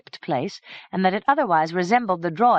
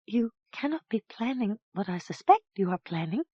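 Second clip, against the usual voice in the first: faltering voice; 5 semitones higher, 4 dB quieter than usual. Acted. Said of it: "spoke in a faltering voice".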